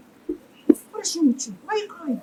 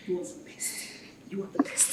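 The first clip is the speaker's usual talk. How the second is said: soft breathy whisper of encouragement; a mother whispering praise to her daughter; 5 semitones lower, 20 dB quieter than usual. Acted.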